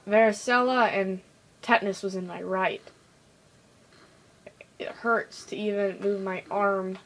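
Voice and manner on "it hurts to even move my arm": whispered, hushed complaint. Real, not acted. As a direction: breathe it out in a whisper. Sore arm complaint.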